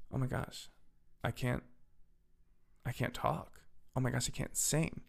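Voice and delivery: soft, strained realization that the voice is gone; small, halting, hushed worry; weakened voice. Retold or imitated. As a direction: quietly test a failing voice, rising at the end. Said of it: "my throat was in pain. I couldn't talk".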